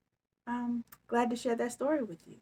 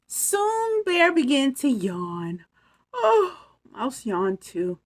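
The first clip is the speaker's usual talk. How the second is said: slow sleepy narration; 6 semitones higher, 5 dB louder, slower than usual. A narrator's reading. Story turns sleepy.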